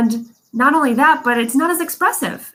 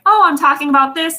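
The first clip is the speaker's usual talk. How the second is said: a bit louder, then drops off at the end; trailing off into fry; 4 semitones higher, 3 dB louder than usual. Shown as a demonstration. Coach repeating the example, trailing off at the end. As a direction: let the last word sag down into fry. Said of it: "my voice kinda drops off".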